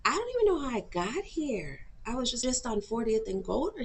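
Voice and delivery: high-pitched retold confusion; bewildered. Waking up in the car and answering housemate, bewildered.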